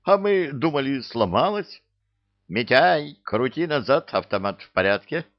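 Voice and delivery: high, loud, amazed chatter; excited calling out. A narrator's reading. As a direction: shout the news over to your mate. Fedka surprised, calls out to Mityai.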